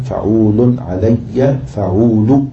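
slow, drawn-out syllables; metrical scansion. Shown as a demonstration. Teacher scanning verse for students, slow and measured. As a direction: stretch each foot as you scan.

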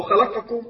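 "خلقكم" سريعة بفتحات ناقصة; اخطف فتحة القاف في "خلقكم"; اختلاس الفتحة. Shown as a demonstration. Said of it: "نختلس الفتحة". (نطق "خلقكم" الخاطئ بحركات مبتورة)

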